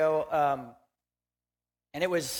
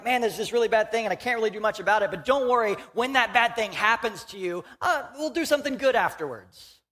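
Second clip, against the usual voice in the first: higher, fast, breezy mock-reassuring voice; imitating Jesus shrugging; 5 semitones higher than usual. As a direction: rattle it off like a casual fix-it promise. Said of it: "he's been like".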